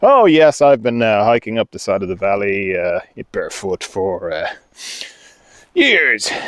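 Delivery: put-on cool, casual, unbothered nonchalance. Imagining being an experienced barefoot hiker: mock cool and nonchalant. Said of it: "cool with it and like".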